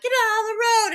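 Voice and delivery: high, loud indignant shout; yelling. Retold or imitated. Rich driver shouting at the bloodied girl, high loud yell. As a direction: bark at someone blocking the car.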